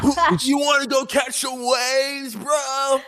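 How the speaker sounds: very high shouted Orange County surfer voice; Orange County bro. Acted. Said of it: "in Orange County, we go, we say this".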